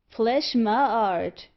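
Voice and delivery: slow, loud exclamation; cried out. Acted. Old clothesman crying out loud to the crowd. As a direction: draw it out in a loud cry. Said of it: "cried the Jew".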